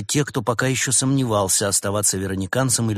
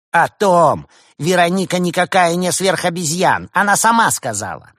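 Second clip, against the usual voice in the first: gloating rival; 8 semitones higher, 7 dB louder than usual. A narrator's reading.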